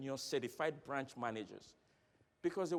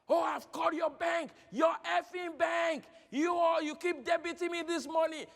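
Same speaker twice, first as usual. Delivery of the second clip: high, loud furious shouting at the bank; angry customer shout; 13 semitones higher, 7 dB louder than usual. Retold or imitated. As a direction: play the irate caller yelling down the phone.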